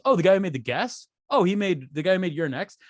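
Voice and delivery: mock fan recognition. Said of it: "nobody goes".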